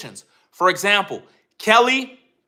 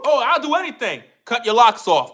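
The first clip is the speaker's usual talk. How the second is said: eager mock excitement; 2 semitones higher than usual. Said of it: "start smiling and dancing like".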